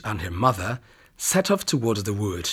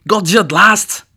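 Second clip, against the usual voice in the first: loud, much higher gleeful shout; 8 semitones higher, 9 dB louder than usual. Acted. Hunter shoots the wolf and shouts in glee. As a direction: crow in triumph. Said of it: "shouted the hunter in glee".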